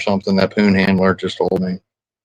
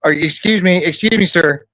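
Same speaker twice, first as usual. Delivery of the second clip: higher-pitched, insistent self-defence; indignant protest; 5 semitones higher than usual. Real, not acted. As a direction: cut in, pitched up, demanding to be heard. Indignant defence, interrupting partner.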